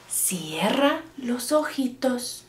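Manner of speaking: soft bedtime coaxing; lightly voiced grandma. Grandma puts child to bed, soft coaxing. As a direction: softly ease the child toward sleep. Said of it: "abuelita dice".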